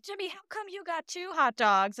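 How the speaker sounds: hammed-up little boy from an old comic; a kid asking his friend about two hot dogs, hammed-up; old-timey comic kid. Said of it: "It's like".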